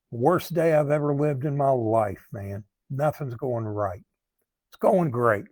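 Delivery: mildly sarcastic mock complaint. Man answering a friend who asked how he's doing, sarcastic. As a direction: act out a reply with understated sarcasm. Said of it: "a sarcastic text on my part".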